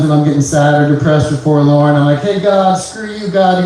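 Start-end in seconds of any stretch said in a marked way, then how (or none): 2.2-3.6 mock yell at God. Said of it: "You guys ever yell at God?".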